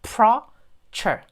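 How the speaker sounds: "pro-cher" very slowly, in two separate pieces; drawn-out teaching syllables on "pro-cher"; reduced E syllables. Shown as a demonstration. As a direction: split "pro-cher" with the E almost dropped. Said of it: "이를 거의 발음하지 마시고".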